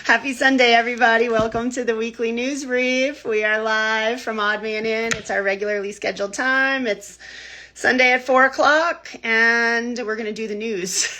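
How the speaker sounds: upbeat news anchor intro; newscaster voice. Shown as a demonstration. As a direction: open the show like a TV anchor. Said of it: "That sound like a newscaster?".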